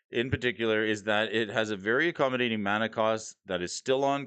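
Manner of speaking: steady, formal written-script read; scripted article read. Acted. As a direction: read it like a finance column. Reads a prepared market article.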